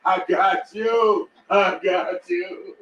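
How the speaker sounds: slow, drawn-out I got you; slow mock reassurance. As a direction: pretend to help, slowly and knowingly. Mocking a fake rescue.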